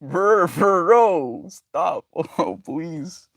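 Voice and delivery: exasperated plea. Retold or imitated. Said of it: "And I'm like".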